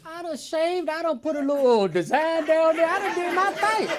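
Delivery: high, loud offended insistence; squealing indignant brag; indignant protest. Retold or imitated.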